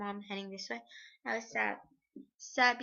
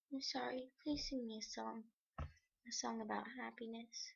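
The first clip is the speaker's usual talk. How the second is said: growing weaker; 9 dB quieter than usual. Acted. Dying Eva asks her friend for a song, fading and soft. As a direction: let the voice drain away. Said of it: "Her voice started to grow weaker".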